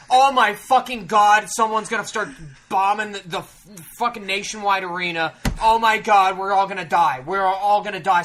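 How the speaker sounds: loud, hammed-up alarm; retold panic. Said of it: "I'm freaking the fuck out".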